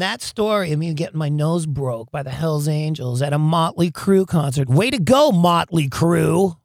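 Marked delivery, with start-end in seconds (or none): 4.7-6.6 loud, drawn-out mock congratulation; sarcastic cheer. He credits the band for his broken nose, sarcastic.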